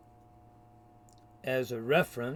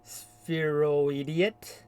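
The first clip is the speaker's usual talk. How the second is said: mocking name-calling; much slower than usual. Real, not acted. Coins mocking insult for opponent.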